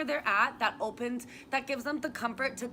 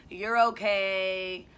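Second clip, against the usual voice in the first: dismissive soothing; 3 semitones lower, 5 dB louder, much slower than usual. Retold or imitated. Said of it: "Something I even used to say".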